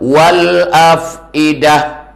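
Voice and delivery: drawn-out, chanted Arabic verse; Arabic recitation, very slow; Quranic recitation. Acted. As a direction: intone the verse slowly like recitation.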